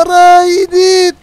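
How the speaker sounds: high, loud cry of pain; pained yelp. Acted. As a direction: yelp as if burned. House burning, hero hurt. (sigaw sa sakit)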